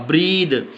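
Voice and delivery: "ब्रीद" ending on a voiced द; final "द" sound. Shown as a demonstration. Teacher models the th ending for students, final द sound. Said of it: "उसका द pronunciation होगा".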